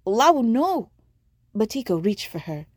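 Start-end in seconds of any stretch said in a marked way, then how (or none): 0.1-0.9 high, loud cry of alarm. A narrator's reading. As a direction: cry out to stop her. Batiko crying out.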